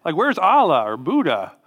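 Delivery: high, loud, puzzled mock voice; incredulous "who's this guy" voice; mock confused goat. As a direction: play the clueless doubter, hammed up. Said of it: "the goats came up and said".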